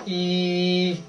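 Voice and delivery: high E; demo E. Shown as a demonstration. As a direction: model the E for the child. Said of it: "you go".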